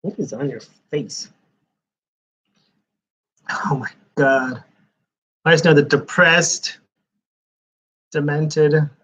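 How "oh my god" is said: whisper. Real, not acted. Shocked at comic cover.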